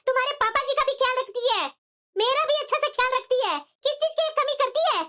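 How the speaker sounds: firm defence, pitch climbing; mother's heated reproach; indignant scolding. Acted. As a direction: tell off your son for the insult. Mother scolds son, defending daughter-in-law.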